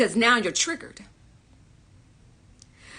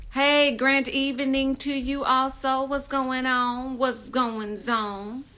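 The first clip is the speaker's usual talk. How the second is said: drawn-out greeting; 3 semitones higher, slower than usual. Real, not acted.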